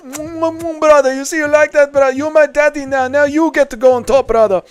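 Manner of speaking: hammed-up high flirty brother voice; Marab impression. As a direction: coo it like a fighter teasing his rival. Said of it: "do an impression of Marab kissing O'Malley and calling him daddy".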